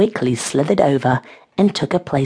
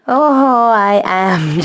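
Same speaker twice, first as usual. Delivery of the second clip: loud, higher gasped reply; 5 semitones higher, 5 dB louder, much slower than usual. A narrator's reading. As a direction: gasp it out, starting high and loud. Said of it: "Chase gasped".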